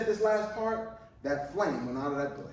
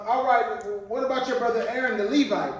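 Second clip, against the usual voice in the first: louder, higher retelling of God's reply; mock God quote; 5 semitones higher, 5 dB louder than usual. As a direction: replay God's words with mock emphasis. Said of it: "and you said".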